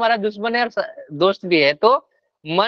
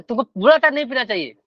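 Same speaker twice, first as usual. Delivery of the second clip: faster, higher told-you-so rebuke; quick scolding; 4 semitones higher, faster than usual. Retold or imitated. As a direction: rattle off the reproach. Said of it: "अभी वही डांट रहा है मन".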